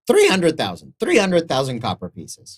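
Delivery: high, squeaky insistence; small creature firmly upping the price; little merchant haggling. Acted. Merchant character raises his price.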